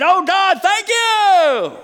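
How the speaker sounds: high, strained reluctant thank you; grudging thanks. Pretend. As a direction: force out thanks you don't feel. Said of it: "I dare you to feel like saying".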